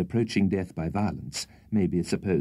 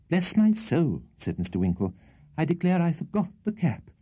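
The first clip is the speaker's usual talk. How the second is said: put-on much higher flustered old-fashioned voice; flustered exclamation; 9 semitones higher than usual. Winkle realises to the host he forgot the cap, flustered. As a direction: gasp at your own blunder.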